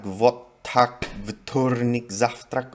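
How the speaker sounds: "vot, tak, vtornik, zavtrak" in a Russian pronunciation, with "tak, vtornik" said slowly; Russian words. Shown as a demonstration. Showing off how consonant-heavy Russian sounds, in Russian pronunciation. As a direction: demo Russian words, leaning on the consonant clusters. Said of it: "language, like".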